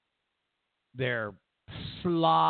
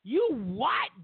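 much higher shrieking yell, stretched out; street woman screaming; 11 semitones higher, slower than usual. Retold or imitated. Comedian imitates barefoot street woman yelling at passersby, shrieking. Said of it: "And she screams".

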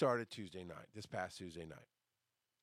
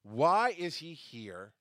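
slow retold complaint; 4 dB louder, slower than usual. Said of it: "I contacted Josh and said".

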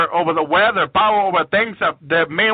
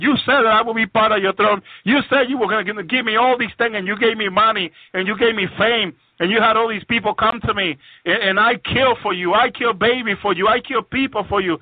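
higher-pitched mock protest of a witch; imitating an aggrieved witch, pitched up; retold witch's protest; 5 semitones higher than usual. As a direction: plead the witch's case in a raised pitch. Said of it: "And the witch said".

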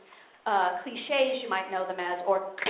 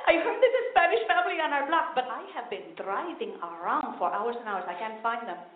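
excited mom; 3 semitones higher, 4 dB quieter than usual. Retold or imitated. Mother telling her daughter excitedly about the store. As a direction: gush about the news. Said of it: "she goes".

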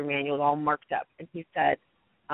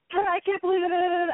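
high, slow cry of disbelief, imitating a frantic man; panicked disbelief; 12 semitones higher, 3 dB louder than usual. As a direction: mimic a young pastor losing it. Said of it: "he just was like".

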